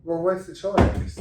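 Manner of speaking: high, loud, slow incredulity; as if the answer is obvious; incredulous shrug. Retold or imitated. Patient answers the nurse, high, loud and slow. Rhetorical reply about surgery.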